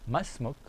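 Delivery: "Masmuk" with a rise at the end; "Masmuk" lilting upward into a question; questioning intonation. Shown as a demonstration. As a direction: ask "Masmuk" as a question, lifting the ending. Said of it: "you must sound it like a question".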